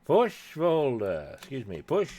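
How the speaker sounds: talking around a pen in mouth; pen in teeth. Real, not acted. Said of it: "I have my pen in my mouth".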